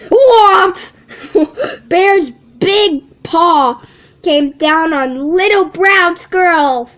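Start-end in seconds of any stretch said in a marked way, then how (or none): 0.1-0.8 much louder, higher sound-effect word; loud whomp. Acted. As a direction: slam it like the paw landing. Bear's paw slams down.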